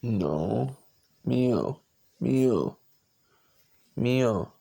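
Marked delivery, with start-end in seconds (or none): 1.2-4.5 loud falling mock meows; imitated meow. Owner meowing loudly at his cat, playful mock meows.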